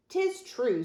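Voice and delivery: high squawked agreement; parrot squawk. A narrator's reading. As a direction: squawk it like a pirate's bird. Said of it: "squawked the bird".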